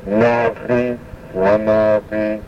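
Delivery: navi, wanavi said very slowly with the guttural sound; slow guttural demo. Shown as a demonstration. Teacher slowly modelling guttural words for students. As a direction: draw out navi and wanavi, throat sound clear. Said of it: "you have to practice that".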